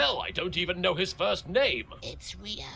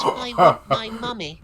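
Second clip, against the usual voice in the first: put-on slow, louder childish whine for mummy; whiny plea; 6 semitones higher, 9 dB louder than usual. Bakura whining before Spike attacks. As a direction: whimper it like a scared kid.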